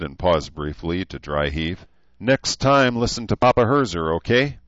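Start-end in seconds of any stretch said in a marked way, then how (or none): 2.2-4.6 laughing. Acted. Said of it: "Herzer said with a laugh".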